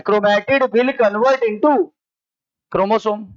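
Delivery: very slow, rising at the end; drawn-out words awaiting completion; slow read-back. Real, not acted. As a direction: read the note out slowly, leaving it open. Reading back the written note.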